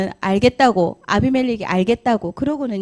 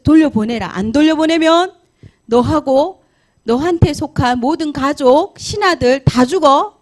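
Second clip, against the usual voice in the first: louder, higher stern warning; stern command; 4 semitones higher, 4 dB louder than usual. Acted. God warning the king to return Sarah, stern and loud. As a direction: lay down the threat firmly.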